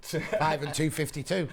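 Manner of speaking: slow, drawn-out number call with a laugh; bingo caller. Shown as a demonstration. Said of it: "Just shout the number out".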